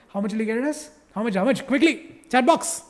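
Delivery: hammed-up South Indian accent; South Indian teacher accent, played up. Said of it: "Proper South Indian accent".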